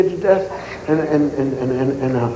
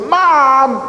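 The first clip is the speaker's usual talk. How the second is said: startled cry; 7 semitones higher, 4 dB louder than usual. Retold or imitated. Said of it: "I said".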